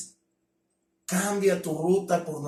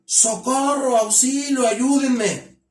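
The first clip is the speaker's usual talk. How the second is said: high, loud cry for help; shouting for help; 6 semitones higher, 4 dB louder, slower than usual. Shown as a demonstration. Speaker shows the class how victims cry out for help. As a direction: call out for help in alarm. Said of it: "se agarran gritando".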